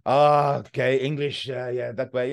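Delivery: a rough attempt at a French accent; bad French accent. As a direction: lightly imitate a helpful French local, accent badly done. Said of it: "awful accent attempt there".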